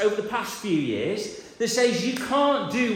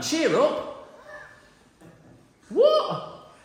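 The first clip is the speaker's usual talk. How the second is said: much higher, louder eager call, slowing at the end; calling out cheerfully; 6 semitones higher, 4 dB louder, much slower than usual. Acted. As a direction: shout encouragement across the crowd. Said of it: "they call the blind man".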